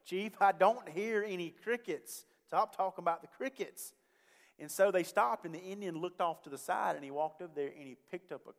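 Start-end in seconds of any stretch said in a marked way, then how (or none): 0.1-3.9 frustrated. Retold or imitated. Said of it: "he's getting a little frustrated".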